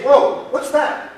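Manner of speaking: high, slow, astonished whoa; retelling the director's startled question; surprised whoa. Retold or imitated. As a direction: react like you just spotted something odd. Director startled by taped computer.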